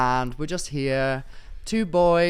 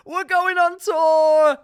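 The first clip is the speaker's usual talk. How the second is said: high, slow and loud big reveal; excited shout, much higher; excited announcement; 8 dB louder, slower than usual. Real, not acted. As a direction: announce the tour with delight. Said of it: "breaking news".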